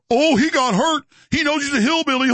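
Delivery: high, giggling mock voice of the critics. Mimicking critics gloating over clips of him, high and giggling. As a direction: sneer it like a gloating critic, laughing. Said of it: "I'm sure the clips will be".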